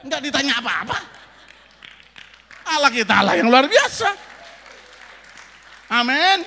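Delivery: very loud, high praise; triumphant shout. Real, not acted. Preacher celebrating a miracle at immigration, triumphant shout. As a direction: proclaim it at full force to the hall.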